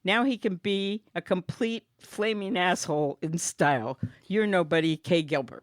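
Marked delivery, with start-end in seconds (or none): 0.0-4.0 keeps the hammed-up French accent going; mock French accent. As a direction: reads the card like a bad French impression. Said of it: "that accent, phenomenal".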